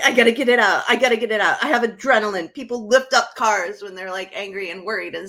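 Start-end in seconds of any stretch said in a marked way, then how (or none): 0.0-1.6 urgent self-talk. Retold or imitated. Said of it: "So I'm like".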